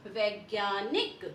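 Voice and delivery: वैज्ञानिक said slowly, each syllable distinct; teacher models वैज्ञानिक slowly; slow clear pronunciation. Shown as a demonstration. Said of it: "next है हमारा".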